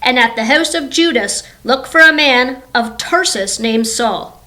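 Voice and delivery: lightly voiced Lord giving orders; God instructing. The Lord sends Ananias to find Saul, mild God voice. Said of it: "The Lord said to him".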